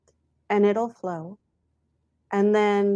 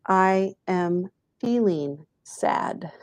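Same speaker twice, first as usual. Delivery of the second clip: slow self-label; slower than usual. Shown as a demonstration. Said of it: "you say".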